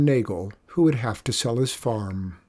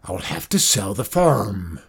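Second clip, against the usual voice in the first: lower, mock-screamed farmer's outburst; screaming; 4 semitones lower than usual. A narrator's reading. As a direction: cry out that all is lost, hammed-up. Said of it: "screamed Zeke".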